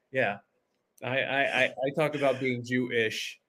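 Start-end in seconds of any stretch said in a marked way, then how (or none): 2.4-3.4 "Jewish" split slowly into Jew-ish; "Jewish" with a deliberate break before "ish"; stress on ISH. Shown as a demonstration. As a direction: separate the "ish" at the end of "Jewish". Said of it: "Emphasis on the ish".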